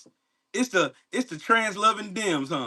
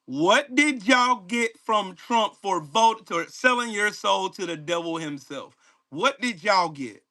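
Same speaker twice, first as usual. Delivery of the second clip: very slow, drawn-out question; slower than usual. Real, not acted. Asking commenters again as if in crayon, slowly. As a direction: spell it out word by word, slowly. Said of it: "Let me slow down".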